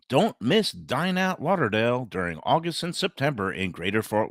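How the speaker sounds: upbeat radio ad read. Acted. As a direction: sell it like a sponsor spot. Host reads sponsor ad.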